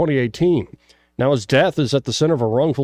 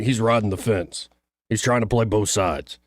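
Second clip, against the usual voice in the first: Tuberville; 4 semitones lower than usual. Retold or imitated. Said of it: "Like my Tuberville?".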